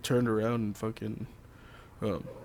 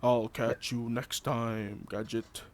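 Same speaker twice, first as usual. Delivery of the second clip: unhinged villain; 2 semitones lower, 7 dB quieter, slower than usual. Retold or imitated. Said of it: "just like Inspector Gadget".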